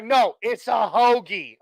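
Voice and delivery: teasing northeastern drawl on hoagie; mock northeastern accent. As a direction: slowly insist on hoagie in a playful Pennsylvania voice. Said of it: "You're like".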